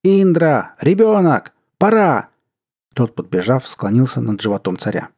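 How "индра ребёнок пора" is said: very high, loud separate cries; high, frantic calling; urgent yelling. A narrator's reading. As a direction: shout each word out in alarm. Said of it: "заорал Манду".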